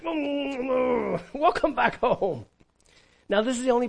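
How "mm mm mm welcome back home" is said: voiced father's welcome. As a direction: mimic a father hugging his son home, slowly. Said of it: "He's like".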